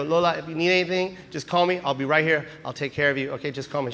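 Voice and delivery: softening bedside voice; gently reassuring. Retold or imitated. Grandson settling grandmother after chemo, soft reassurance.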